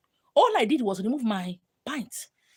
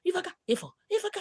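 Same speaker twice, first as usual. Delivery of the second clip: moaning; 8 semitones higher, 4 dB quieter, much faster than usual. Retold or imitated. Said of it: "He's doing".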